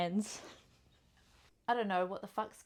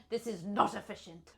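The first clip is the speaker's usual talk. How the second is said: put-on restrained, softer German accent; 2 semitones lower, 5 dB quieter than usual. Player repeating the line, toned-down German accent. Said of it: "the German".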